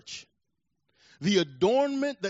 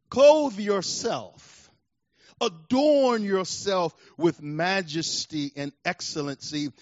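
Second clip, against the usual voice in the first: booming command; 5 dB louder, slower than usual. Acted. Preacher voicing God commanding Job.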